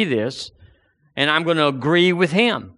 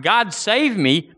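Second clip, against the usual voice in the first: sincere plea; 5 semitones higher, slower than usual. Retold or imitated. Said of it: "cry out to God".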